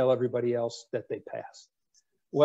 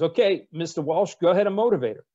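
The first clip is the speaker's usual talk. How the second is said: a touch higher and louder, goading; mock challenge; 4 semitones higher, 5 dB louder than usual. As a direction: dare him to try. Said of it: "Rickover says".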